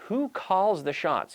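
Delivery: "Who calls the shots?" slow, with "Who" stressed and falling; slow teaching emphasis. Shown as a demonstration. Teacher modelling "Who calls the shots?" slowly with a stressed "Who". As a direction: lean on "Who" and take it slowly. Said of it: "in English we say to call the shots".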